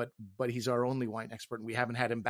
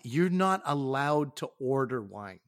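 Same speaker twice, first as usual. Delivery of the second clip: louder, shocked "What? What?" then slow scolding; hammed-up waiter outraged at a child ordering wine; mock indignant waiter; 3 dB louder, slower than usual. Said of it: "He was like".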